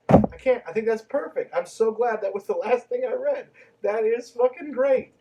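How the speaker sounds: can't believe what you just read; disbelieving outburst; incredulous. Real, not acted. Incredulous reaction to the quote.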